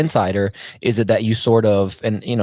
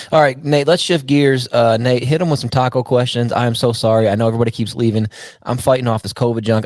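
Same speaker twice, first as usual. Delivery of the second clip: sick, hoarse and rough; 3 semitones higher than usual. Real, not acted. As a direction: talk through a covid-sore throat. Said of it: "sounding like a, you know, like an old smoker".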